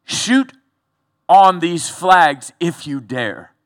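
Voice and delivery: defiant challenge. Retold or imitated. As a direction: dare them, slow and loud. Consul defies the firing squad.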